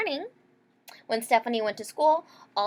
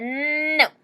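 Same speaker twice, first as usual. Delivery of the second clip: put-on louder, higher childish "No."; a child digging in her heels; firm refusal; 6 semitones higher, 5 dB louder than usual. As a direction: refuse outright. Stephanie refusing mom.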